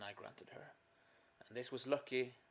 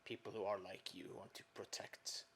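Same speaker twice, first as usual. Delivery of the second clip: whispering; 2 semitones lower, 5 dB quieter than usual. Acted. Character whispers in scene.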